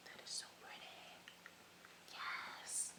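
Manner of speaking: breathy awed whisper, almost no voice. Real, not acted. Vlogger admiring her highlighter to viewers, whispered. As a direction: hush your voice as if the shine might break.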